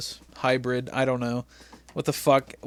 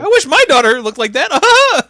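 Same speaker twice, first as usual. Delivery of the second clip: much higher, louder sleazy put-on voice; leering commentator voice; 12 semitones higher, 9 dB louder than usual. Commentator leering at Hulk Hogan's daughter on air, hammed-up. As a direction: ham up a creepy announcer.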